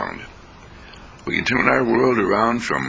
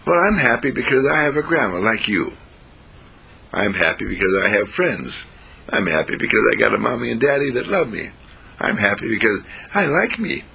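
lightly voiced little girl, lilting higher; happy granddaughter; 4 semitones higher than usual. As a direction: play a child listing happy reasons. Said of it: "And the granddaughter says".

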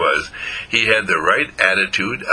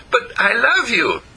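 insistent affection; 12 semitones higher than usual. A narrator's reading. Dog insists to doubting skunk.

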